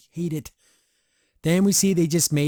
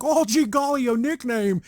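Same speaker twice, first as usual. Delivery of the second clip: gushing Hootie; 9 semitones higher, 3 dB louder than usual. Retold or imitated. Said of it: "He's like".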